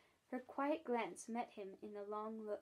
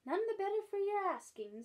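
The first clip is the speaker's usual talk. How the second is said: tart; 9 semitones higher, 4 dB louder than usual. Acted. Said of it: "tossing her head".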